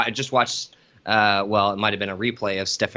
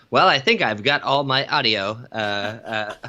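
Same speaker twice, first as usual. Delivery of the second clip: mock intro voice. Shown as a demonstration. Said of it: "that's what I'm gonna come in as".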